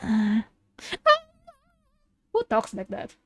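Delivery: ordinary talk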